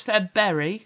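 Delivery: Febberry, rhyming its end with berry; Febberry, the first R dropped; wrong pronunciation. Shown as a demonstration. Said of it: "which is just wrong".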